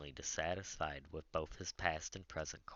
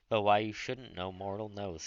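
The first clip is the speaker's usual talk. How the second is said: gayer tone; 3 semitones higher, 8 dB louder than usual. A narrator's reading. Saint Clair lifting his mood with Tom, gayer tone. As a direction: shake off the gloom lightly. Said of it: "in a gayer tone".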